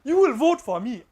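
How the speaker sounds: loud, high imitation of a pirate's command; African pirate. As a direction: boom it out like a movie pirate demanding votes. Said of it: "then the African pirate".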